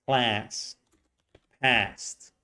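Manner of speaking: "Class, past" with the open front vowel of "cat"; Californian short A. Shown as a demonstration. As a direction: model "Class, past" with the crying-baby vowel. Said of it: "pronounce it exactly the same way".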